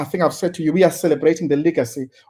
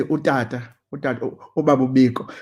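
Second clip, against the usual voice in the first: respectful, softened address; 5 semitones lower than usual. Retold or imitated. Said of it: "I can't help but say".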